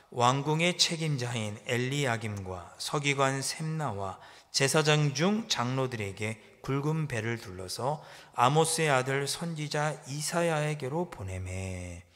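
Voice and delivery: slow, measured recitation; leading the church in a slow reading; scripture reading aloud. Real, not acted. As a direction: read each word together, steadily.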